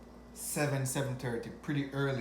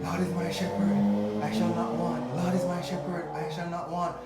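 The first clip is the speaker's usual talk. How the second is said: psalm chanted low, half-sung at first; retold prayer to drive off the ghost; chanting a psalm; 4 semitones lower than usual. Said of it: "I started".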